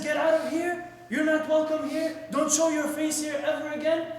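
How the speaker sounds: retold angry dismissal; indignant expulsion. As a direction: throw the student out forcefully.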